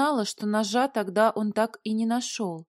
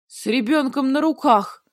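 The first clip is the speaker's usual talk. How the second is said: loud, higher-pitched confirmation; emphatic confirmation; 4 semitones higher, 6 dB louder than usual. A narrator's reading. Dragon confirming the heroine's snide thought, loud emphasis. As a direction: confirm it forcefully, voice raised. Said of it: "подтвердил дракон".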